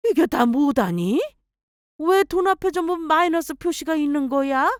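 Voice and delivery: stunned by all the minus signs; mother-in-law reading the overdraft, shocked. Acted. Mother-in-law sees debt.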